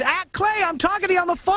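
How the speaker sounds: high, exasperated outburst. Real, not acted. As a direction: sigh it out at a clueless caller. Host exasperated at caller's TV.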